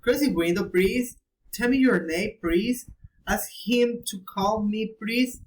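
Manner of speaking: "please" lifted as a polite request; rising request intonation. Shown as a demonstration. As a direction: raise the tune on "please" in each request. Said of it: "regret, remember regret".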